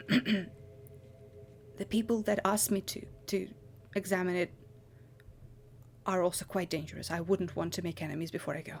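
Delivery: voice dropped low and hushed. Voicing a character in a game scene who speaks in a lowered voice. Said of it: "He kind of lowers his voice and says".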